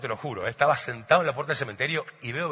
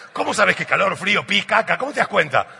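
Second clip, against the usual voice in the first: amazed; 4 semitones higher, 6 dB louder than usual. Real, not acted. Amazed at mother's intuition.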